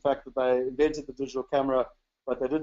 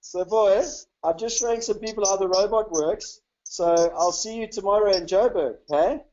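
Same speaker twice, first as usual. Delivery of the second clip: fond parent talk; 4 semitones higher than usual. Real, not acted. Father telling his son he's showing people the robot, fond and lifted.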